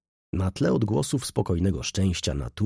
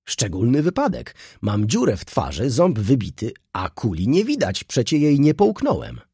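higher and louder, a squawking complaint; shrill yelling; 5 semitones higher, 5 dB louder than usual. Acted. Wounded baron yelling to the crowd, loud and high. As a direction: yell it in an indignant, squealing voice. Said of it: "mówił wrzaskliwym głosem".

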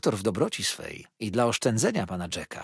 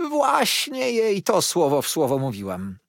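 louder, higher eager exclamation; exclaiming; 8 semitones higher, 7 dB louder than usual. A narrator's reading. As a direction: cry out, vindicated. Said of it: "zawołała pani Markleham". (zawołała z zapałem)

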